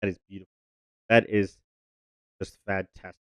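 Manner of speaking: hushed, breathy praise; frantic whisper. Real, not acted. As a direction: whisper it in awe. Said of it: "I have to whisper it".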